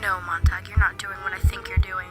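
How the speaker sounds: loud, intense stage whisper; warning whisper. Acted. Inner voice tries to stop Montag, intense whisper. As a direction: hiss a forceful warning.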